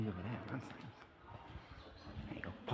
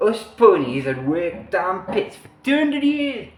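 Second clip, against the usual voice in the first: put-on second go at an Asian accent, a touch higher; hammed-up Asian accent as the pit pony; attempted Asian accent; 6 semitones higher than usual. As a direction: commit a little more to the Asian accent. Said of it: "I'm trying to do a, a, an Asian accent".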